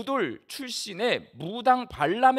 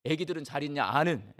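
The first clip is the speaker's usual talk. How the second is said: Gyeongsang husband; 5 semitones lower than usual. Retold or imitated. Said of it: "세 마디 한대요".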